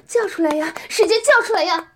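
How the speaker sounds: high, loud urging order; loud command. Acted. Dominant woman urging her partner to cry out, loud command. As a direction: drive the order home.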